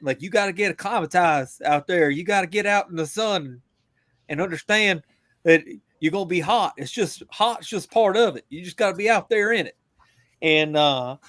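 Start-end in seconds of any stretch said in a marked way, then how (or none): 0.2-9.8 put-on a light West Virginia accent, a little faster at the end. Recalling his first sergeant in a West Virginia accent. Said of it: "in a weird West Virginia accent".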